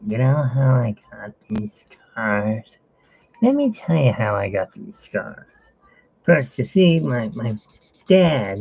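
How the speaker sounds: menacing storyteller drawing out key words; Joker. Acted. Joker telling how he got his scars, theatrical villain impression. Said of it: "me as a Joker, and it's like".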